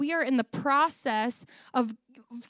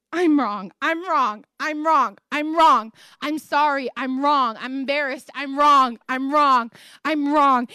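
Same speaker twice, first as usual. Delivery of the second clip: retold sobbing; 3 semitones higher, 5 dB louder than usual. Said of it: "I just start sobbing".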